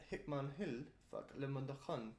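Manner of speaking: made-up foreign language; gibberish accent. Shown as a demonstration. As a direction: fake foreign-sounding gibberish. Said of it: "maybe if you said something like".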